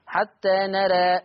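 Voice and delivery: حتى نرى said slowly, final ألف of نرى tilted toward "e"; pausal form with taqlil. Shown as a demonstration. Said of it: "إلا حال الوقف عليها".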